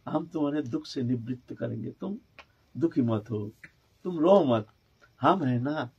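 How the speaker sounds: put-on low, soft child comforting his mother; tenderly consoling. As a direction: gently plead with mother to stop weeping. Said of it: "आंसू पूछ रहे हैं".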